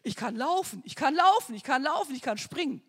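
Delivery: excited cry of a healed woman, rising on laufen; joyful shout. Retold or imitated. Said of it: "sie kam raus und schrie".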